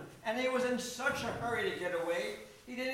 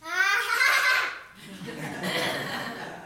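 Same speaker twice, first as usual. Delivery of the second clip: high drawn-out rooster crow; long, high cock-a-doodle cry; 11 semitones higher than usual. Acted. Rooster enters, crows before introducing himself.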